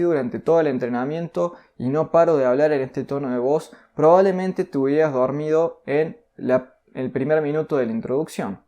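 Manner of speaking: low, soft, unvaried droning delivery; monotone demo. Shown as a demonstration. Teacher showing how a monotone talk puts you to sleep. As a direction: drone on without any lift. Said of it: "empiezo a hablar así".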